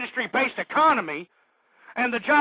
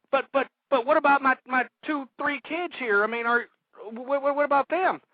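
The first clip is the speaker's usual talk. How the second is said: pleading, tripping over the first words; stammering protest; 2 semitones higher than usual. Acted. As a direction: stammer out a worried objection. Acted client pleads with social worker.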